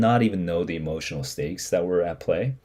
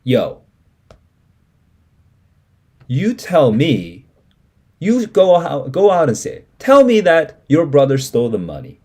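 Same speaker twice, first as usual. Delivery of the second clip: Mama pleading; 4 semitones higher, 6 dB louder than usual. Acted. Mama's emotional plea, later cries.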